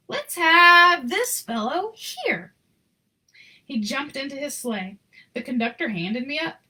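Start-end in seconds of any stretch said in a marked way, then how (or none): 0.1-2.5 slow, louder jolly Santa; Santa's voice. A narrator's reading. Santa picks the boy from the crowd, slow and booming. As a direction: boom it out like Santa choosing a boy.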